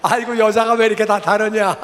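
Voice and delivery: amused exclamation, laugh breaking in. Real, not acted. Preacher joking to the audience about women, laughing.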